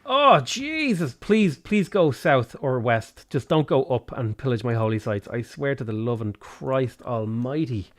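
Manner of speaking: drawn-out exasperated plea; weary, desperate begging; pleading. Real, not acted. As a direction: beg slowly, sinking as you go. Begging game enemy to turn away.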